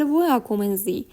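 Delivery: واکومنزی with a short "e" glide before the "a"; vowel before "a". Shown as a demonstration. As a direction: slip a small "e" into the first syllable of واکومنزی, before its "a".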